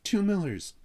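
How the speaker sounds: high, loud outburst of disbelief; loud exclamation. A narrator's reading. Chip faced with two Miller boys, loud high exclamation. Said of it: "exclaimed Chip".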